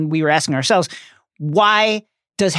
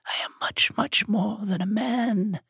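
icy cold; 4 semitones higher, 8 dB quieter than usual. Acted. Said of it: "the cold voice barely audible now".

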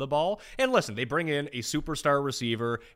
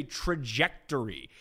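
"trajectory" said slowly, piece by piece; careful slow enunciation; slower than usual. Shown as a demonstration. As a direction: sound out "trajectory" with care. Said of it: "I have to say it really slow".

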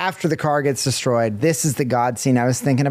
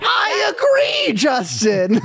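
mock agreement; slower than usual.

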